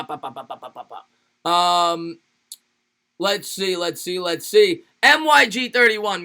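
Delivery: ordinary talk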